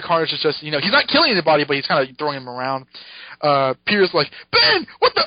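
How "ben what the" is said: high startled yelp; mock surprise. Peter startled at Ben outside, high mock yelp. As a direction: jump out of your skin.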